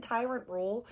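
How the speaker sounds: tyrant rule repeated with a rising, disbelieving lilt; mocking echo. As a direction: tyrant rule echoed in incredulous mockery. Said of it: "This man just said".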